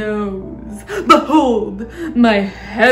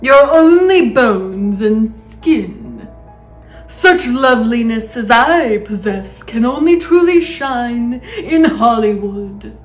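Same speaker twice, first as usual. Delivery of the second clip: loud, scornful boast; crying out; 9 dB louder than usual. A narrator's reading. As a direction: vain aunt in full voice. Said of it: "Aunt Sponge cried out".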